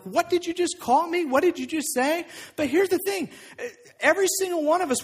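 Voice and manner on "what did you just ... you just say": high, affronted questions; mock-offended, pitched up. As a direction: act as if just insulted. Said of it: "that just sounds offensive".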